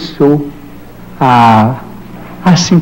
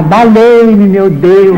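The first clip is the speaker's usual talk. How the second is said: retold cry for help; 3 semitones higher, much slower than usual. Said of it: "Então comecei a gritar".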